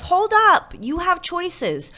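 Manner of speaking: loud, high "hold up"; calling a halt. A narrator's reading. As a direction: break up an argument. Benny breaks up ants arguing.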